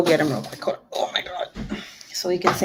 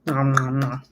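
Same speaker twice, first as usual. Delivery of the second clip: munching sound; 7 semitones lower, 5 dB quieter than usual. Shown as a demonstration. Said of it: "hear me munching".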